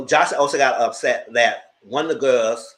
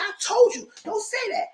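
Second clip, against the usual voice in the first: retold warning. Retold fight, repeated warning.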